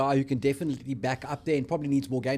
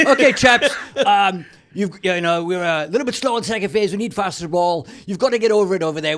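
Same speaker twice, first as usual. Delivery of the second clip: higher, louder hammed-up Scottish coach accent, laughing at the start; mock Scottish accent; 5 semitones higher, 6 dB louder than usual. Mocking the coach's halftime talk to his podcast cohost, in a hammed-up Scottish accent. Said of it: "it's actually a Scottish accent".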